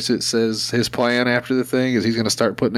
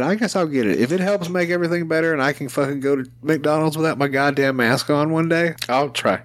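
resigned giving in; 5 semitones higher than usual. Retold or imitated. His words to his wife.

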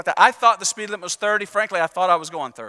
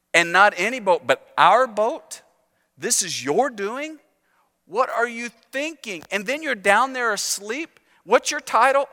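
exasperated sailors; 3 semitones higher than usual. Retold or imitated. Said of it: "those sailors said".

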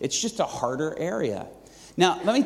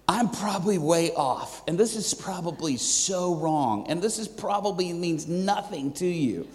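hesitant disclaimer. Retold or imitated. Young pastor warning waitress his guess is wrong, hesitant.

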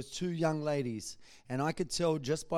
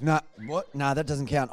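loud, scoffing rejection; loud disbelief; 7 dB louder than usual. Retold or imitated. Man seeing Jesus on a building, loudly scoffing it off. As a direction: blurt it out loud, refusing to believe.

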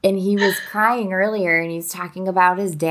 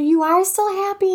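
imitating her son; 11 semitones higher than usual. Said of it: "And he said".

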